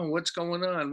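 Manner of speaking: a shocked disciple blurting out a question; shocked disbelief. Acted. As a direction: ask it as if the news just hit you. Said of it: "everyone was shocked".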